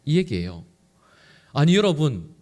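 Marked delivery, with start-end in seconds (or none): none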